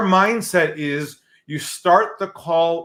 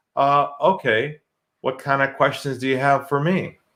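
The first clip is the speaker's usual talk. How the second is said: lowered, calmed-down, relaxed voice; 3 semitones lower, 4 dB quieter than usual. Retelling how the man on the phone relaxed and answered, a put-on lowered voice. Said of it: "he lowers his voice and he says".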